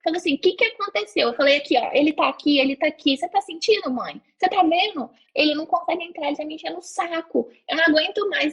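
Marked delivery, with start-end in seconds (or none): 0.3-1.3 alarmed mother. Retold or imitated. Mom rushing in. 1.6-8.5 lightly raised, agitated pleading; a hint of panicked shouting; mock agitated yelling. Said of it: "comecei a gritar".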